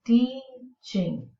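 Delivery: teaching split into two clear beats; careful pronunciation model. Shown as a demonstration. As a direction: say teaching as two separate syllables, teach-ing. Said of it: "pronounce them in the correct way".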